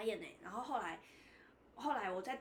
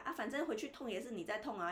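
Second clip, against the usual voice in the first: 模仿牙医不耐烦的碎念，语气放平; 淡淡学他冷漠地撇清责任; 碎念说教. Retold or imitated. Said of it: "他就说". (模仿牙医对病人撇清责任，冷淡碎念)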